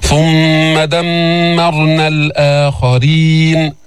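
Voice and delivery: very slow chanted recitation; Quran recitation. Shown as a demonstration. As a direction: hold the doubled miim. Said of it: "teacher recites verse".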